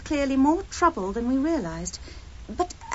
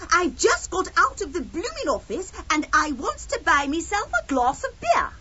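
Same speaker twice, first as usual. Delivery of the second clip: a hammed-up, badly done Cockney typing clerk; Cockney accent; 5 semitones higher than usual. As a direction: try out a clumsy East End accent, higher. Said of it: "Can you do the accent?".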